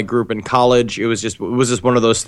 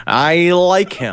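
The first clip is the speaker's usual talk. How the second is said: high, slow, drawn-out imitation; mock-earnest high-pitched drawl; imitating co-host's verdict; 6 semitones higher, much slower than usual. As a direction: stretch it out high, mocking a friend. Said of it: "And he goes".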